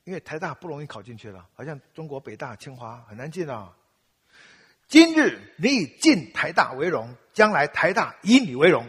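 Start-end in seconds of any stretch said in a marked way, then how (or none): 4.9-8.8 proud motto recital. Retold or imitated.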